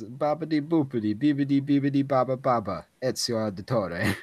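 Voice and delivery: put-on high, loud sing-song Italian accent; mock Italian gibberish. Streamer reading a friend's message aloud, mock Italian gibberish. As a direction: rattle off hammed-up Italian babble. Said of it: "Attila says".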